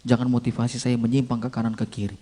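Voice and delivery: low, softened plea to God; quiet prayer. Acted. Preacher praying for pure motives before preaching, quiet and low. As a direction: pray it low and subdued. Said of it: "Saya doa".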